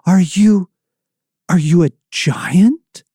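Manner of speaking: high, halting frightened questions; frightened boy. Acted. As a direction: ask in a scared stammer. Frightened boy questions unseen thing.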